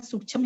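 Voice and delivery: full chha in sukshma, final vowel lost; wrong sukshma as "sukchham". Shown as a demonstration. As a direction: mispronounce sukshma as "suk-chham". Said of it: "तो वो गलत बोलते हैं".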